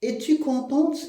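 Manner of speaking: lightly voiced father asking, high rising "contente"; a hint of Sganarelle questioning his daughter; father asks his daughter, mildly acted. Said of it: "elle dit à sa fille".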